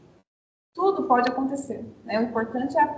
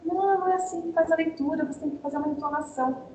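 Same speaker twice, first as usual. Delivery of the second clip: lightly acted teacher's correction, starting higher; correcting teacher; 5 semitones higher than usual. Teacher correcting a student mid-reading, mild acted correction. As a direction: mildly play a teacher correcting a pupil. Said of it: "se esse professor corrigir esse estudante".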